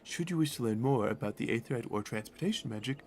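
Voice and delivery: lightly acted game guide; lightly voiced guide NPC. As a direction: read the guide's lines with light character. Reads NPC quest dialogue.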